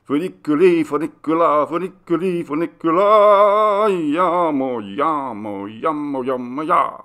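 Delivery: bellowed high and loud; yelled-out chorus. A narrator's reading. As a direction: belt the song refrain out. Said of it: "the yelled-out burden".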